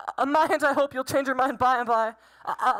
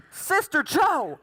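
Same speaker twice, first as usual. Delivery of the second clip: joyful laughing; slower than usual. Acted. Suitor joyful announcement.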